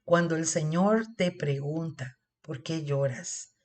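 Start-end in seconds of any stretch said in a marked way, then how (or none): 2.4-3.5 soft and slow, full of care; hushed loving question; tender question. Acted. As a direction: ask it like the Lord consoling you. Qué lindo.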